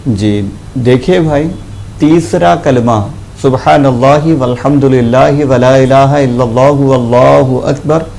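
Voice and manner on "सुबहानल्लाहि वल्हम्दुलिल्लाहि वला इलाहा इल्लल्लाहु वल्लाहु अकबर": measured recital of the kalima with lengthened vowels; lightly intoned Arabic dhikr; Arabic prayer recitation. Acted. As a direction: recite it as a sacred formula, syllable by syllable.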